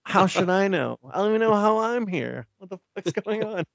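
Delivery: high-pitched, baffled complaining; mock exasperated rant. Podcaster as ghost Alfred pestered with questions, exasperated rant. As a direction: rant in a high voice, hammed-up bewilderment.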